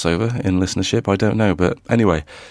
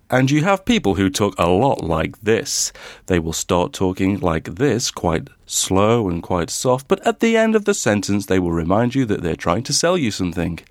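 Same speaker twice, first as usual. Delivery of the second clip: advert voiceover. Shown as a demonstration. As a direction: mimic a salesy voiceover artist, taking your time. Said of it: "everyone has heard this kind of voice when".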